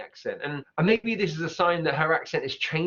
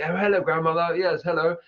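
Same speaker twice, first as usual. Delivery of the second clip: a light posh RP "hello, grandmother"; mock-posh RP greeting; hint of a posh RP accent; 3 dB louder than usual. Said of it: "my best R P accent".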